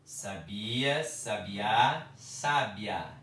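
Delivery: sabia, sabiá, sábia each stressed on a different syllable; bi, then á, then sá. Shown as a demonstration. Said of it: "É diferente a pronúncia".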